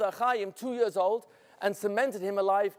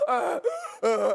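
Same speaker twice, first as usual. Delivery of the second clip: choking. Acted. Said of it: "you could hear him go".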